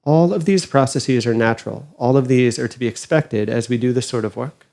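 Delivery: calm, unhurried meditation guide with long pauses; guided meditation. Acted. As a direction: gently guide them inward, leaving space between phrases.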